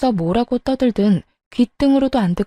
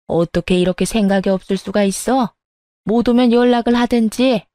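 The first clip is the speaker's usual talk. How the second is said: lightly voiced stern mother-in-law; a touch of an imperious elder; scolding mother-in-law.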